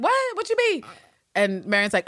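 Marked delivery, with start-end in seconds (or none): 0.0-0.8 very high, startled squeak; mock bafflement. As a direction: imitate someone caught off guard, pitched way up. Retold startled reply by Abbott.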